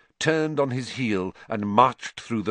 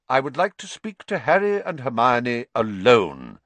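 abrupt; 4 semitones higher, 4 dB louder than usual. Acted. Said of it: "said Dumbledore abruptly".

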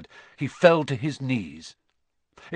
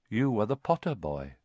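quiet, grave centaur; a hint of a solemn centaur, softly spoken; measured and hushed; lightly voiced centaur; 2 semitones lower, 6 dB quieter than usual. Centaur gently addresses lost boy.

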